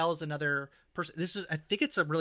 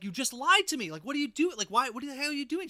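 higher and louder, a retold accusing yell; mock yelling; 10 semitones higher, 5 dB louder than usual. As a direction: act out the friend yelling at Angie, hammed up. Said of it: "she starts yelling at Angie".

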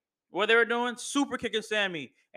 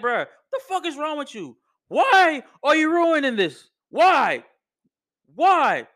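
mock pissed Roman; 6 semitones higher, 6 dB louder than usual. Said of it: "This man was hella pissed".

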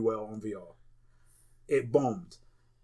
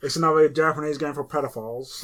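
put-on Irish accent; 3 dB louder than usual. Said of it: "Is that your Irish accent?".

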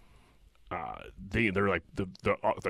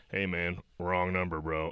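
casual brush-off; 4 dB quieter than usual. Retold or imitated. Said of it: "coming back like".

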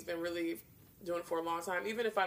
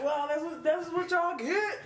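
sassy quote; 10 semitones higher, 6 dB louder, slower than usual. Retold or imitated. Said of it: "I was like".

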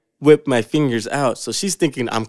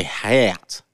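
"hat" drawn out with a Southern twang; Southern accent; 2 semitones lower than usual. Shown as a demonstration. Showing a friend how Southern speech slips in, Southern accent. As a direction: say "hat" like a Southerner, vowel stretched. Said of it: "when you talk to someone from the South".

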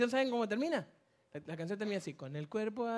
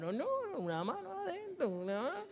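higher, lightly voiced members brushing it off; members' reply; 7 semitones higher, 4 dB quieter than usual. The four members answering the pastor, lightly voiced and higher. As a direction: toss it off like a shrugging member. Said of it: "los cuatro miembros se miraban y decían".

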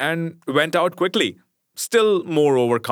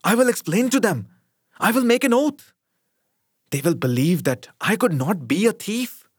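higher, a touch of fearful pleading; mild trembling plea; 7 semitones higher than usual. Acted. Mashenka's frightened thought, lightly trembling. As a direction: Mashenka voicing her desperate thought, with a slight tremble.

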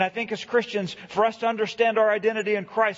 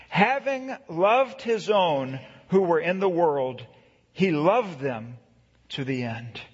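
scripture reading. Acted. Pastor reads scripture aloud.

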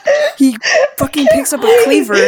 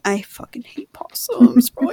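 whispering; slower than usual. Real, not acted. Aside about hating possums.

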